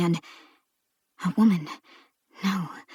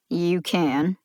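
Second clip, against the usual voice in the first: dry reply. Acted. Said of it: "His dry response".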